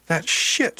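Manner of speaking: high, loud flash of outrage; indignant. A narrator's reading. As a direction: spit out an indignant curse. Indignant at hearing of teasing.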